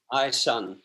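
a light imitation of a dry Scottish accent, said low; Kenny Dalglish Scottish. Manager to young player in the stuck lift, dry Scottish accent. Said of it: "he said in his dry Scottish accent".

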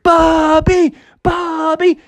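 high, drawn-out mock cheer; crowd cheering. Crowd cheers the returning bear, high cheering call. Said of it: "everybody cheered".

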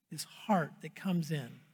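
a soft whispered aside to the congregation. Real, not acted. Pastor whispering to the congregation about humility. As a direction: lean in and breathe the words.

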